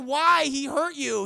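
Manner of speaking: indignant, lightly acted; mock protest. Retold argument, angry protest.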